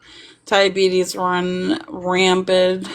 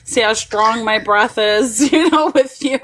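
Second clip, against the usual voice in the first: higher, laughing mock agreement; laughing along with grandpa; 5 semitones higher than usual. Teasing grandpa about breath exercises, laughing and higher. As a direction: humor grandpa through giggles. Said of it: "I'll be like".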